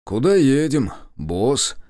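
perky servile question, starting high and loud; obsequious. A narrator's reading. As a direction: inquire like an eager chauffeur. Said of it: "подобострастно осведомился я". (подобострастно)

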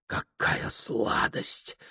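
breathless whisper, slow; whispered thought. A narrator's reading. Prokhor whispering to himself after the kiss, slow. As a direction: hush it to yourself, savoring.

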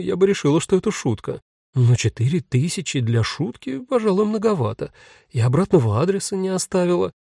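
lightly voiced bewildered wife; Vera's voice. Vera voiced in story.

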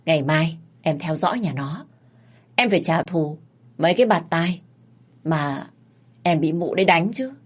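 lightly voiced young thug, earnest; loyal Sơn. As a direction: pledge loyalty to his big sister. Sơn promises.

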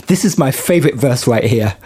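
laughing through a singer's quote; imitating a singer, laughing. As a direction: giggly attempt at her accent. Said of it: "I can't do the accent".

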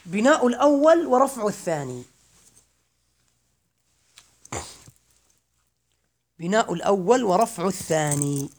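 slow rule read, الأول stressed; teacher stating the rule slowly. Shown as a demonstration. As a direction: dwell on الأول. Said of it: "الرابعة، أخواني".

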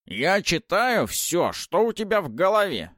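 высокий медленный скрипучий голос ведьмы; многозначительно, как всезнающая старуха; голос Бабы-Яги. Acted. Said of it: "заметила старуха". (скрипучий голос старухи)

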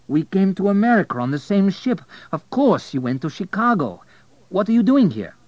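put-on high, loud excited old acquaintance; astonished Abel. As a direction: burst out in surprise at the reunion. Abel meets Zafir, delighted.

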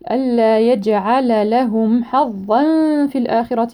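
tajweed recitation; Quran recitation. Shown as a demonstration. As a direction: draw the verse out melodically. Slow recitation of verse.

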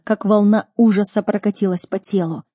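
ordinary delivery, nothing marked

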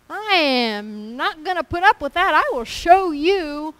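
a hammed-up vengeful sinner roaring back; vengeful outburst. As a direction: throw the threat at them. Acting out the vengeful flesh.

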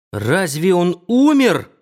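loud, high, slow muffled cry; shout. Acted. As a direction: cry out as loud as you can, choked. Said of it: "закричал я как можно громче".

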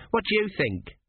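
put-on high, naive young lad asking; curious apprentice. A narrator's reading. Apprentice asking his master's opinion, high and curious. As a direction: ask innocently.

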